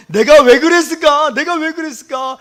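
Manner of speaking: loud, high cry of mock remorse; acted self-reproach. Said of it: "그런 자책하는 마음으로". (자책하며 외치는 연기)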